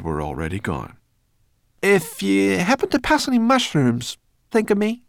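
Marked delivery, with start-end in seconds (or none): 1.8-5.0 very high, loud sing-out; calling after them. Acted. Sorrel calling after Ben about mushrooms, high holler. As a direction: holler a parting request.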